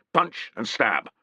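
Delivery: firm drill chant, Punch stressed; centurion drill words. Acted. Centurion drilling his men, firm. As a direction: bark Punch and stab as drill.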